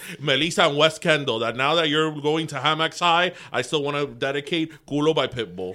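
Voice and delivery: loud Miami guy caller; caller character. Pretend. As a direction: shout out like a hyped radio caller. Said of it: "in character".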